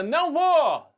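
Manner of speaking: high, loud defiant "Não vou!"; shouted refusal. Retold or imitated. Son yelling at his mother, loud defiant shout. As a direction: yell it back at her. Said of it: "Você grita".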